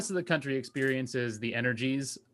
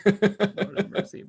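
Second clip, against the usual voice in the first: loud; 7 semitones higher, 6 dB louder, much slower than usual. Acted. Slow loud repeat.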